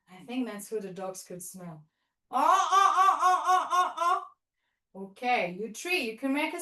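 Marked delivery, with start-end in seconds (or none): 2.3-4.2 playful monkey hoots with a laugh; monkey chatter. Pretend. Teacher making monkey sounds for kids in the trees, laughing. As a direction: hoot like a cheeky monkey.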